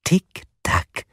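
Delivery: high, singled-out clock ticks; taunting caller. A narrator's reading. Caller reminds the four of the deadline, taunting. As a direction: tease them with the countdown.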